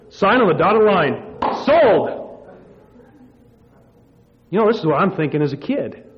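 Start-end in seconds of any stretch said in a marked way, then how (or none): 0.1-2.1 climbing higher and louder to sold; excited deal closed. Retold or imitated. Dad gleefully closing the sale of his daughter.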